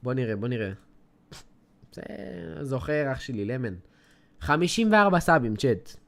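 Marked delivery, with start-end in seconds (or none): 4.4-5.5 excited outburst. Real, not acted. Shocked at low sub count.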